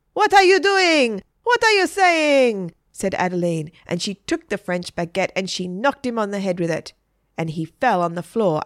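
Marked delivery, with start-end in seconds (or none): 0.1-2.7 high, loud indignant outburst; outraged exclamation. A narrator's reading. Adeline answers the kneeling teacher's advances, outraged. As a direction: cry out in shocked outrage. Adeline reacts to sudden love declaration.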